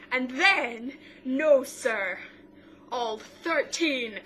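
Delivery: loud, high, laughing with excitement; thrilled fan shriek; excited squeal. Real, not acted. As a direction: gush about the surprise cameo. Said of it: "laugh cry".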